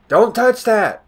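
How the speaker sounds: high, loud mock scolding; sudden high yell, quoting someone; imitated yell. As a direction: yell it like a panicked parent's command. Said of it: "it's not that bad to yell".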